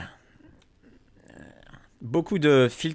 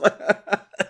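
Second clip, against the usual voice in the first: machiavellian laugh; 7 semitones higher than usual. Pretend. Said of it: "faire un rire machiavélique".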